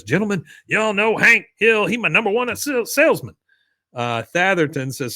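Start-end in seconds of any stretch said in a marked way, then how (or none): 0.0-3.4 high-pitched Southern boss announcing; Buck. Retold or imitated. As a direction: present an employee to the card table, hammed up. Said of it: "Buck says".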